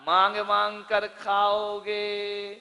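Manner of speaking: a slow, weighing first take of मांग मांग; मांग मांग drawn out at normal volume. Shown as a demonstration. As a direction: stretch मांग मांग कर खाओगे slowly, level. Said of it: "मांग मांग के खाओगे।".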